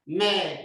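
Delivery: "Me" said slowly and clearly; teacher modeling "Me"; French word model. Shown as a demonstration. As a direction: model "Me" for the class to repeat. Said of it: "Can you say that?".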